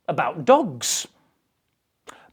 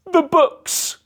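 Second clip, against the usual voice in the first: put-on high, louder child's cry; a boy calling out in alarm, pitched high; Peter crying out; 11 semitones higher, 4 dB louder than usual. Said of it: "cried out Peter".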